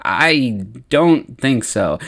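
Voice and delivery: slow, spaced-out words; reluctant refusal. Acted. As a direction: draw it out, hesitant to say no. Qui-Gon refuses a second request.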